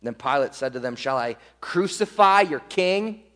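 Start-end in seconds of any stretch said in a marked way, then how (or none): 0.9-3.2 lightly mocking rhetorical question; smart aleck. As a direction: needle them with a questioning lilt. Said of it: "Pilate being a smart aleck".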